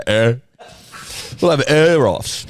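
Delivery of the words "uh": demonstrated "uh" noise; inflected grunt. Retold or imitated. Showing how he and Jack do it, inflected grunt. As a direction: show the grunt as a little story. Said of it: "sometimes and just go".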